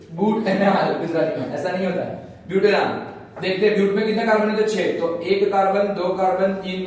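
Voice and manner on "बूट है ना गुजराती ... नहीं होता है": amused. Real, not acted. Joking about boot in Gujarati.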